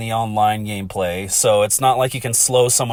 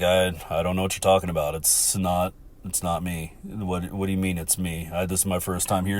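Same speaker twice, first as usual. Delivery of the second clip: mock innocent denial; 7 semitones lower, 7 dB quieter than usual. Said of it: "And he's like".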